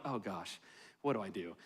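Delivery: soft, dropped mock panic. Pastor recalling panicking over running, soft mock panic. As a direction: mutter it to yourself.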